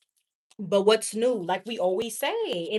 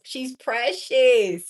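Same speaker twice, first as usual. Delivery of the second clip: slow, savoring; 4 dB louder, much slower than usual. Real, not acted. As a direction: draw out "She's precious" slowly. Praising the rich girl.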